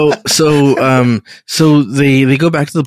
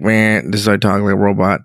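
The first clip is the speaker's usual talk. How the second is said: robot voice; 5 semitones lower than usual. Acted. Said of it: "look at my voice".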